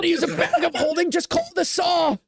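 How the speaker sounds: high-pitched exasperated outburst. Acted. Bugbear demanding the saw from a companion, exasperated. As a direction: scold in disbelief, voice jumping up.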